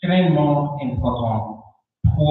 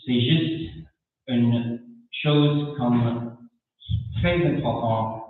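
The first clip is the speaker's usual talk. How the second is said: French spoken with a non-native accent; careful, halting second-language French with an accent; foreign accent in french. Real, not acted. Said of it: "pardon mon français, je parle lentement".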